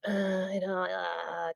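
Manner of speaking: soft, halting hesitation; drawn-out dithering, trailing off softly; conflicted. Shown as a demonstration. Showing how humans answer when unsure, conflicted.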